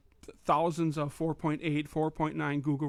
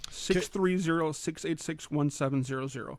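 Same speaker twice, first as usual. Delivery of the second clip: slower repeat. Shown as a demonstration. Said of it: "repeated slowly".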